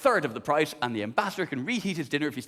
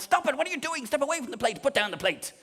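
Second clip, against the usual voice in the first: stern inner voice; 8 semitones higher than usual. Retold or imitated. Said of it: "working class part of my brain just woke up and went".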